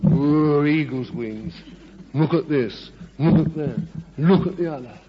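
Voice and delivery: loud marvelling whoa; awed exclamation. Retold or imitated. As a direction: marvel like seeing it for the first time. Preacher retelling his own awe.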